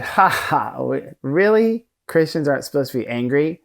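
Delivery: retelling the therapist's laughing disbelief; a chuckling, incredulous "really?"; amused laugh. Retold or imitated. Therapist laughing at his client's claim, amused disbelief. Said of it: "And he laughed and he said".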